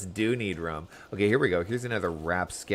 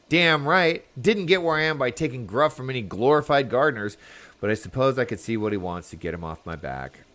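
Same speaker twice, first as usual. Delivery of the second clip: gruff pirate; 3 semitones higher, 5 dB louder than usual. Acted. Pirate answering the hero.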